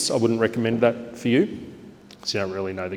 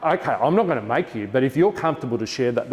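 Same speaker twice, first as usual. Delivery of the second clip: delighted praise; 4 semitones higher than usual. Shown as a demonstration. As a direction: keep the excitement up. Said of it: "like it's Christmas morning".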